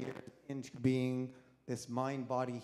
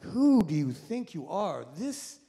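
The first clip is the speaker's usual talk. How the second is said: self-scolding voice; 7 semitones higher, 4 dB louder than usual. Retold or imitated. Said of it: "I felt like".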